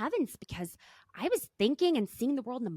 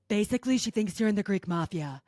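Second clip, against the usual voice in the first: lightly voiced Lisa, a touch louder; a hint of Lisa's deadpan tease; imitating Lisa; 3 dB louder than usual. Host quoting Lisa from the ads, lightly imitated. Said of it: "we see Lisa go".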